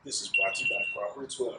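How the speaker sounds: hard sell ad. Shown as a demonstration. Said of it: "I don't know why I sounded like a commercial".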